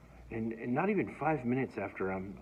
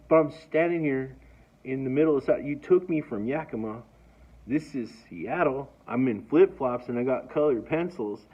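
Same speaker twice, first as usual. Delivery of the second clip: freed prisoner protesting to the guard, louder and indignant; 2 semitones higher, 5 dB louder than usual. Retold or imitated. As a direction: argue back, stranded and outraged. Protesting being dumped in Seattle.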